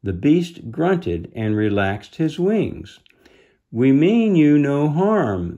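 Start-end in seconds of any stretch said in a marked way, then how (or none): 3.7-5.6 brave reassurance. Acted. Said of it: "the brave little fairy went on".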